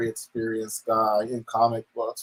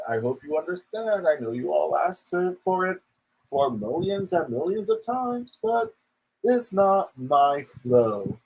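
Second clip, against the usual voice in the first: mocking impersonation; 5 semitones higher than usual. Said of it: "this video could have just been like".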